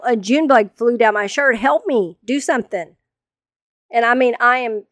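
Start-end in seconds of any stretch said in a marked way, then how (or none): 0.0-3.0 mock yell for help; retold yell. Wife with bug down her shirt, yelling to husband. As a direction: imitate a panicked, raised plea. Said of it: "I finally managed to yell".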